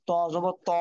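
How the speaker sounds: heavy, thick "ত" with a rounded vowel; heavy consonant. Shown as a demonstration. Teacher drilling Arabic letters, "ত" said thick. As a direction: say "ত জবর ত" with a full, heavy ত. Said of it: "মোটা হবে".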